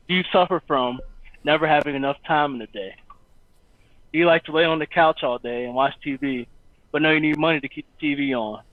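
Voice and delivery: steady, polished reading of his own book; audiobook reading. Acted. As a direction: read it like an audiobook intro. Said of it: "You're getting a little preview of the audiobook".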